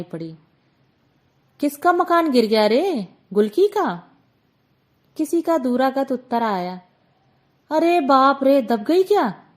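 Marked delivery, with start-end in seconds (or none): 1.6-4.1 higher and louder call across the lane. Acted. Aunt calling across the dark lane after the crash, alarmed call. 7.7-9.4 louder, higher gasp of alarm; alarmed cry. Acted. Distant neighbour shouting back in alarm.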